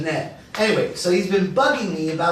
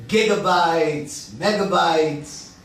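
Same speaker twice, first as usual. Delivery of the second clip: slow listing; 2 semitones lower, slower than usual. Acted. Listing laptop features as a joke.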